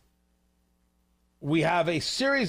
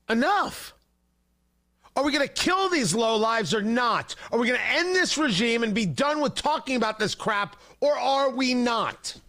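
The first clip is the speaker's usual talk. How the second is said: raised, furious demand, pitch up; exasperated yelling at the president; angry shout; 4 semitones higher than usual. Real, not acted. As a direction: shout down the cutesy talk in real anger.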